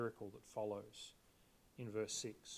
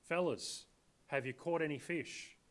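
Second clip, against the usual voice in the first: casual mates' greeting; slower than usual. Shown as a demonstration. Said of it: "kind of understand this to be".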